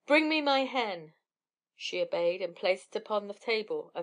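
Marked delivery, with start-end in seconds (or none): 0.0-1.1 higher, louder booming command; thundering giant. A narrator's reading. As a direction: call it out like thunder. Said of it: "called to his wife in a voice like thunder".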